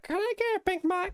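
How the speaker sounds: very high, put-on squeaky order; mock a clueless drive-thru customer, way up high; silly customer voice. Voicing a scooter-riding customer.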